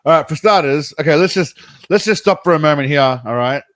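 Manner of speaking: loud, stopping everything; loud exclamation. Real, not acted. Reacting loudly to poll.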